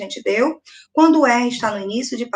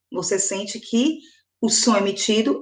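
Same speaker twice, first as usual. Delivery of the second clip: normal talking voice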